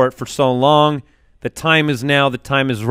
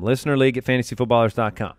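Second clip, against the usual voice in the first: fast and softer, tossed off; quick repeat; 3 semitones lower, 5 dB quieter, faster than usual. Shown as a demonstration. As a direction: rattle it off quickly.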